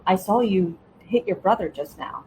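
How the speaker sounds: neutral, matter-of-fact delivery; casual elevator tone of voice; even, unemotional tone. Shown as a demonstration. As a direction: state it evenly, without emotion. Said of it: "in a very even tone voice without emotion".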